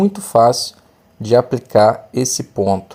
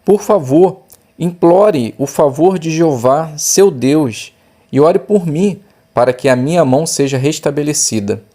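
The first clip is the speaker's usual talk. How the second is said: a touch of a begging king, pitch raised; pleading king; 4 semitones higher than usual. Acted. King begging the man of God for healing, mild plea. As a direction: let the king plead with some urgency.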